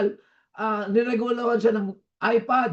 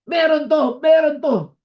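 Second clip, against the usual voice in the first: excited realisation; 5 semitones higher, 5 dB louder than usual. Retold or imitated. Realising there's a reason, shouting.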